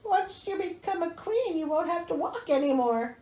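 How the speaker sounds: coaxing stepmother. Acted. Mother coaxing daughter.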